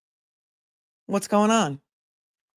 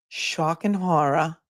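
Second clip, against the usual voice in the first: mock horror; 3 dB quieter, much slower than usual. Sarcastic reaction to police statement.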